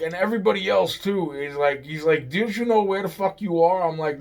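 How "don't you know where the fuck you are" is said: high-pitched mock indignation; retold angry demand. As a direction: challenge like the mad guy, half-acted. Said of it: "he's really fucking mad. He's yelling".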